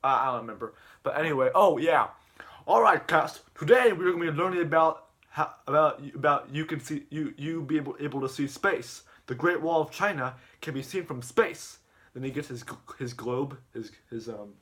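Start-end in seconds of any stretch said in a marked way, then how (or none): 2.7-11.8 lightly raised, lecturing teacher voice; mock teacher voice. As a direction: play the teacher addressing class, a bit higher. Teacher voice in retelling.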